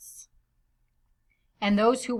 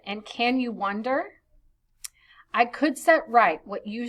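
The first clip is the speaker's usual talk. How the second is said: put-on measured reading of old verse; storyteller's verse voice. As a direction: read the poem aloud to the class. Reads verse translation aloud.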